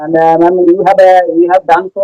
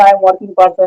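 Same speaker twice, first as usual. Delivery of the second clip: usual speaking voice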